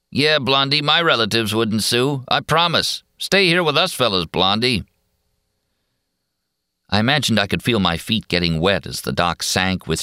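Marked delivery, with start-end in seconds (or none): 0.1-4.8 raised, mocking come-on voice; leering loafer. A narrator's reading. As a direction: tease her to stay, sly and smug. Another loafer joins the taunting.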